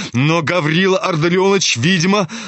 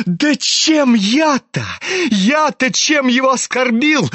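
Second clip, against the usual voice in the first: much higher, sneering innocence; mocking insistence; 8 semitones higher than usual. A narrator's reading. Sick youth insisting he gave no offence, mocking. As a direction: feign injured innocence, mockingly. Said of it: "настаивал Ипполит ... насмешливым тоном".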